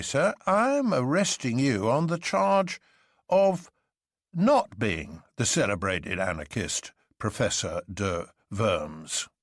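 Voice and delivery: a hint of a polite constable, slow and deliberate; lightly voiced policeman, measured; civil policeman. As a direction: policeman politely correcting the arrest charge.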